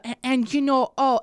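imitated North Dakota auntie; aunt's North Dakota accent. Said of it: "she just has the".

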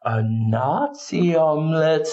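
slow, knowing aside; aside to camera. Pretend. The speaker winks to camera about his omelette, slow knowing aside. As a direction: lean in and share the joke slowly. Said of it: "lean into the camera and say".

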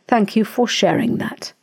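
imitating a deadpan brush-off; matter-of-fact deadpan. Husband shutting down a toxic relative, mock deadpan. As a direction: politely close the subject without emotion, as an imitation. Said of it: "in a very matter-of-fact, deadpan way".

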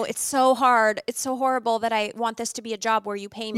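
hammed-up anguished apologizing; mock apology. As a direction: plead as if being paid were dreadful. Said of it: "and to apologize".

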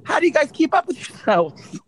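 lightly voiced TV reporter. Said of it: "I'm gonna do my voice".

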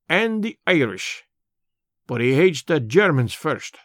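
put-on an old border radical holding forth in broad Scots; lightly voiced Scots elder, earnest and proud; Scots labour man. Old Amos lectures Mister Brand on the war, lightly voiced Scots.

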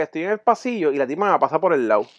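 ordinary delivery

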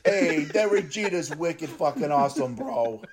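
put-on slow Boston bro accent. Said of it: "New York Boston accent".

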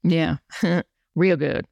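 slow amused echo; laughing. Real, not acted. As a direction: chuckle through the words. Laughing at grammar joke.

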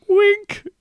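high, loud, hammed-up "Wink."; hammed-up wink from a TV host; mock TV host. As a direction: play a cheesy presenter winking at the crowd.

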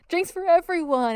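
high, drawn-out party whoop; hammed-up rowdy reveler; Greed. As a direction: call out a round for all. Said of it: "it would be Greed".

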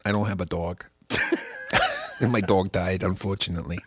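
understated mock-mournful New York accent; put-on New York accent. Owner of a dead dog, put-on New York accent. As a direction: report it as a comic New Yorker. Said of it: "to actually do this accent right".

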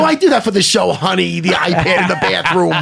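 acted indignant excuse. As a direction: protest to the wife, hammed up. Acts out excuse to his wife.

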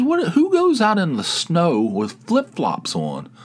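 high, drawn-out disbelief; incredulous. Retold or imitated. Tony questioning flip-flops in the snow, incredulous. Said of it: "she was, like, incredulous".

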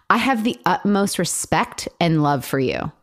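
breathy whisper, slow and disgusted; whispered reading. Retold or imitated. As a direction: read it in a slow, scornful whisper. Reads line with disgust, whispered.

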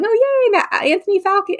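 high-pitched imitation of polite cheering; mild mock cheer. Seated fan clapping as Falcon comes out, mildly cheering. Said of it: "we're sitting in our seats clapping".

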